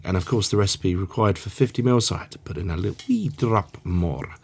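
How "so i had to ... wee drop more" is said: softer, lilting Irish "wee drop more"; Irish accent. Acted. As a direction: slip into a playful Irish accent. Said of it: "try not to do any more Irish accents".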